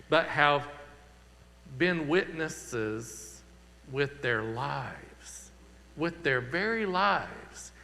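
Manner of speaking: unhurried prayer with swelling pauses on key phrases; pastoral prayer. Acted. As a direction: lead the congregation in earnest prayer. Pastor leads closing prayer.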